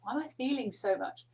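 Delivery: exasperated "oh my God" to oneself; overwhelmed exclamation. Acted. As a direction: act out being overcome by feeling. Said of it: "It's just like".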